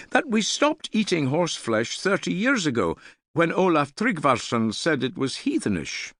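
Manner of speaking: put-on high, fast, keen boy's voice; a young lad bursting to share his news; eager young lad. A narrator's reading. Young man telling the hall about a king-making, eager and high.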